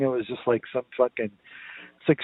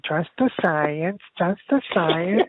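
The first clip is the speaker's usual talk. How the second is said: slow, higher sing-song repetition; parroting voice; 5 semitones higher, slower than usual. Retold or imitated. Friend mimics a comedian parroting a slogan, slow and sing-song. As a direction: chant it like a parrot. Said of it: "Like, like a parrot".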